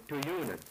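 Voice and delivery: Tuyunan said cleanly, ending on a clear n; careful Tuyunan with a nasal n ending; Aleut plural. Shown as a demonstration. Showing the linguist the plural for many chiefs, careful pronunciation. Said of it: "we say".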